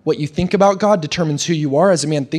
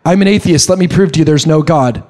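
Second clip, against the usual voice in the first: louder, emphatic challenge; mock defiant atheist; 6 dB louder than usual. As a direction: declare it forcefully as a pretend atheist.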